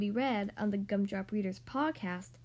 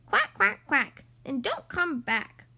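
quacked; 6 dB louder, slower than usual. Acted. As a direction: quack him away, then drag out the warning. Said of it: "quacked the wild ducks".

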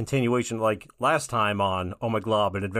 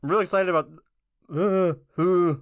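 struggling through a heartburn twinge; halting, pained by heartburn; 6 semitones higher than usual. Real, not acted. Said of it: "I just got hit with some heartburn".

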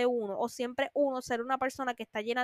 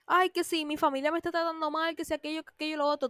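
higher mock complaint, rattling fast at the end; hammed-up grumbling friend; whiny friend; 4 semitones higher, faster than usual. Mocking the friend who complains about family, whiny rush.

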